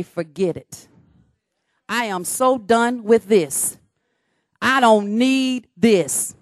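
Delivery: a tired sigh of quitting; fed up. Retold or imitated. Preacher voicing someone ready to quit, fed up.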